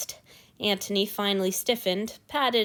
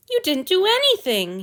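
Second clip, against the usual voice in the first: high, louder reassuring voice; 10 semitones higher, 6 dB louder than usual. A narrator's reading. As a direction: reassure him urgently. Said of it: "he assured his master".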